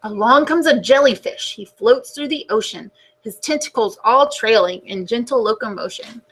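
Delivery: put-on gentle storybook narration for kids; reading to children. A narrator's reading. Teacher reading the class a book, storybook voice. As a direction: read it like story time on the rug.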